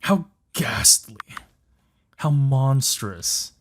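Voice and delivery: slow, drawn-out horrified gasp; mock aghast. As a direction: savour each word in mock horror. Narrator voice reacting.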